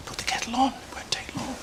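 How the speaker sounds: high, hushed aside, fading to whisper; confidential aside. Acted. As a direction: slip it softly to a colleague. Aside to receptionist about patient.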